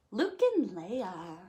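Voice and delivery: breathy hushed title; whisper. Acted. Reader whispering the names Luke and Leia as a hushed reveal. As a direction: whisper it like a secret.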